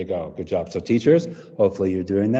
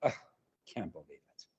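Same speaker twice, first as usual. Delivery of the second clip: dry, much softer and lower sarcastic mutter; 6 semitones lower, 17 dB quieter than usual. Shown as a demonstration. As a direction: roll your eyes as you say it. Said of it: "And then sarcastic".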